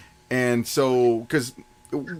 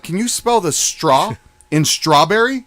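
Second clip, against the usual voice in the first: slow pointed question; slower than usual. Retold or imitated. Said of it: "and I'm like".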